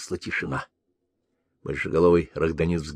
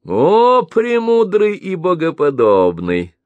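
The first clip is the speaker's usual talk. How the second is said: high, loud slow exclamation; rapturous praise; 11 semitones higher, 6 dB louder, slower than usual. Acted. Merchant embracing the Kagan in delight. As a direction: hail him in delight.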